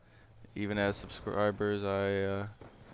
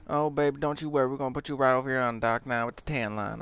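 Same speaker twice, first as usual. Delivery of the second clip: put-on Loretta's old-school Southern accent; 4 semitones higher, 4 dB louder, faster than usual. Supervisor reassuring a worker, fast high Southern voice. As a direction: rattle it off high and quick like a kindly dock boss. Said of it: "she said it so fast".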